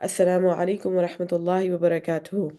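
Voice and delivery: fast formulaic Arabic recitation; rapid recitation. Real, not acted. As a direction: rattle off the opening blessings.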